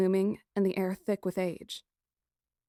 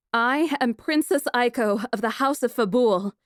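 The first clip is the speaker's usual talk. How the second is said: louder, haughty declaration; imperious; 4 semitones higher, 6 dB louder than usual. Acted. Princess facing her captor, imperious and loud. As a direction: draw yourself up and announce it. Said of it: "I crackled at him imperiously".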